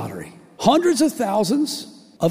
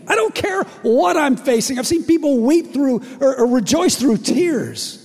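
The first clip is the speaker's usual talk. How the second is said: impassioned joy; 7 semitones higher than usual. Acted. Passionate testimony of joy.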